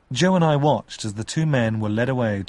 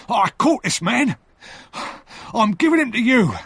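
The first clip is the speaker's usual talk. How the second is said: higher, louder triumphant cry; cried out; 12 semitones higher, 4 dB louder than usual. Acted. The convict shouts to the soldiers, loud and high. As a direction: shout it proudly, much higher. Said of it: "he cried".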